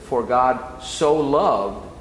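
slow, leaning hard on so; "For God so loved" with so drawn out and stressed. Shown as a demonstration. Preacher draws out so to teach its meaning. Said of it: "the so, hotos".

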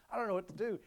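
imitating a frantic friend. Friend calling about his daughter, mock frantic wail.

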